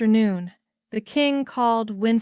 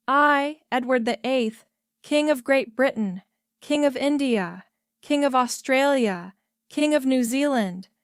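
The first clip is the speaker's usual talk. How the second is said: formal proclamation; 3 semitones higher than usual. A narrator's reading. King reading abdication paper formally.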